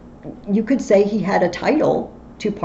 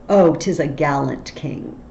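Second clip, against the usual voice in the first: ironic; 4 semitones lower than usual. Shown as a demonstration. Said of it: "it sounds a bit ironic".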